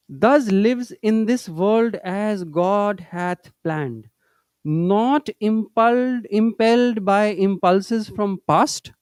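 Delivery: slow, measured recitation of a holy text; teacher reciting Master's words to students, slow and solemn; scripture reading. Acted. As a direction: read each phrase slowly and with reverence. Reads scripture quotation slowly.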